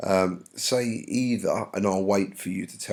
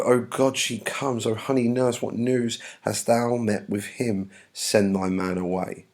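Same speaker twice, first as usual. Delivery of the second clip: lightly acted verse reading; dramatic play reading. Juliet begging the nurse for news, lightly acted. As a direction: read it out as an eager Juliet. Reads Juliet's lines aloud.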